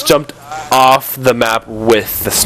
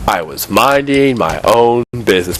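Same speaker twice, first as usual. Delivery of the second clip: mock storytelling; 5 semitones lower than usual. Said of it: "tell the story from the top".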